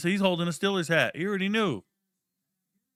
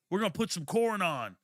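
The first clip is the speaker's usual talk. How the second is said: a hint of a chirpy teammate voice; barely voiced teammate offering music; lightly mocked teammates; 4 semitones higher than usual. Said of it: "They were out there".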